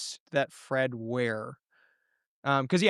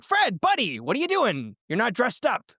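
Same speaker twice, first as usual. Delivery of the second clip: a rough Scottish burr, high and bright on Fred's name; Scottish accent; 7 semitones higher than usual. Acted. King of the fair calls out Fred, in a Scottish accent. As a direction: hail him in a hammy Scottish accent. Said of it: "I don't know why he has that accent".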